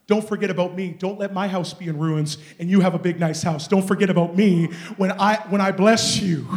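loud, emphatic plea in God's words; building pulpit exhortation; forceful preaching. Acted.

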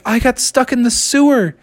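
high-pitched little frog voice; sheepish frog excuse. Acted. Froggy explains to his parents, high and sheepish. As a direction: own up in a small high voice.

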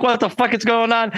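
retold bewilderment. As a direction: imitate baffled friends just shaken awake. Woken band members react in confusion.

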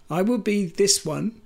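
lightly voiced shaky old man; a hint of a trembling elder; quavery old man voice. Shown as a demonstration. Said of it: "a sort of quavery old man voice".

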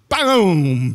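loud, drawn-out "boom"; storyteller's crash effect; imitated impact boom. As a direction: sound out the crash of a toy landing. Imitates toy hitting the baby.

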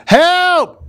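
high, loud cry for help; yelled help. Shown as a demonstration. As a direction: yell it like you're being attacked. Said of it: "you need to yell".

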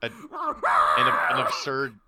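laughing shout. Real, not acted. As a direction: blurt it out laughing. Laughing through guessing game.

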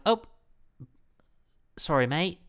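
British attempt gone Australian; accidental Australian accent. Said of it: "doing Australian again".

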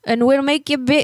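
lightly voiced old lady with a hint of English accent. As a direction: play a fussy old neighbor lady on a prank call. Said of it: "when I talk like an old lady".

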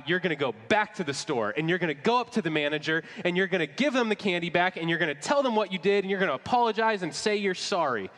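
lightly acted parental telling-off; upset mother. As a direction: retell a mother laying down orders, rising as it goes. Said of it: "She was so upset".

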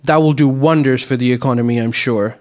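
dry, understated sarcasm; sarcastic. Real, not acted. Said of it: "Is that sarcasm?".

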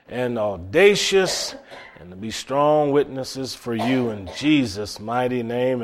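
earnest pastor's prayer voice; closing prayer. Acted. Pastor praying for his church, earnest prayer voice. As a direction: pray over the congregation with steady fervor.

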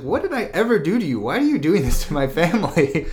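high, fast hammed-up outrage; mock outraged father. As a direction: rattle it off like a wounded mob boss. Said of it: "the Don's like".

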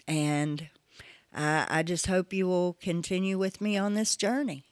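soft unvoiced whisper. Real, not acted. Podcaster whispering her hope to listeners before the break, hushed. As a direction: breathe it out as a whispered confidence.

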